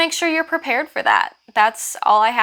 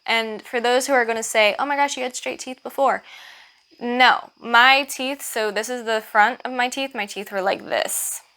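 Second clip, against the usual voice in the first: slight lisp, new braces. Real, not acted. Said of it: "sorry about my lisp".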